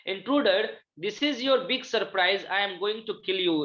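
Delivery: slow, deliberate reading aloud of a drama line; slow classroom reading of the play. Acted. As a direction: read each word out slowly for the class. Teacher reads intruder's threat.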